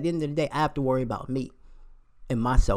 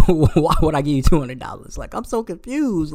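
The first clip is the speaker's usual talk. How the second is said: incredulous; 2 semitones higher, 6 dB louder than usual. Real, not acted. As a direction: ask it baffled, pitch rising. Disbelief at her request.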